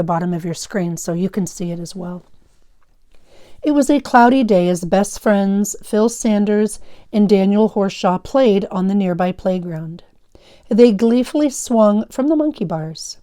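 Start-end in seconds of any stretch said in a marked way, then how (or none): 3.6-13.2 lively read-aloud for a class; story read aloud. A narrator's reading. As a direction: read the story to students with energy. Teacher reads story aloud.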